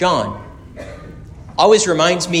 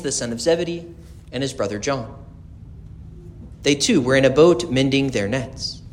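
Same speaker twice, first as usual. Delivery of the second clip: gospel reading; 4 dB quieter than usual. Acted. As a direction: proclaim it to the congregation.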